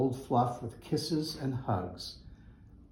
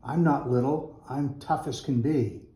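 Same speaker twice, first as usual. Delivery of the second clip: mild shout; 3 semitones higher than usual. Acted. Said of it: "Fluff shouted out".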